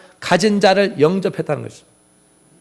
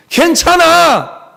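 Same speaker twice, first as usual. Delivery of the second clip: reassurance; 6 semitones higher, much slower than usual. Acted. Jesus to disciples in the storm, reassuring call. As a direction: call out slow reassurance across rough water.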